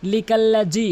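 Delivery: "লিকাল্লাজি" ending in hard ji; mistaken j sound. Shown as a demonstration. Teacher shows what to avoid, hard j. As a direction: say "লিকাল্লাজি" with j for dhal. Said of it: "কখনোই লিকাল্লাজি বলবেন না".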